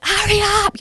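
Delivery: high frantic shout to hurry; desperate cry to a husband strolling along; panicked yell. Retold or imitated. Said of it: "And I'm like".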